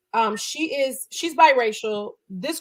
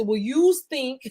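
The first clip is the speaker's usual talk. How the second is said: put-on Italian American accent; 4 semitones higher, slower than usual. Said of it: "They would say".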